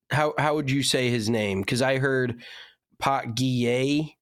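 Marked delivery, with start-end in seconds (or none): 3.0-4.2 Pot Guillet said the French way, slowly; French-style pronunciation. Retold or imitated. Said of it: "like it's French".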